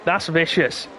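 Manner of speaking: loud, high shocked cry; shocked exclamation. Real, not acted. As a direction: gasp it out in shock. Watching the headbutt replay.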